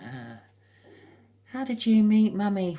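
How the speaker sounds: put-on high, loud child voice; playful high kid voice; child asking. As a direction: pipe up like a curious kid. Child voice in imagined scene.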